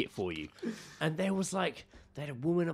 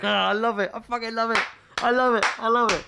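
delighted laughing; 8 semitones higher, 8 dB louder than usual. Real, not acted. Delighted by the absurd name.

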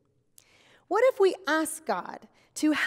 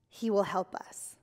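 soft, lower whisper; 7 semitones lower, 5 dB quieter than usual. Real, not acted. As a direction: whisper it like a comforting secret. Sermon point, whispered.

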